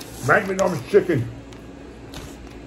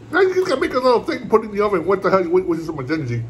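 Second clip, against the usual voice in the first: mock wife; 3 semitones higher, faster than usual. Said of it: "My wife gets pissed".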